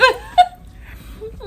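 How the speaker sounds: laughing, high and squealing. Real, not acted. Laughing at own joke.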